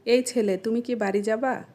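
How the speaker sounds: standard Bengali pronunciation. Shown as a demonstration. Asking a boy if he's going home, standard Bengali. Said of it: "এটাকে আমরা আঞ্চলিক ভাষায় কিভাবে বলবো".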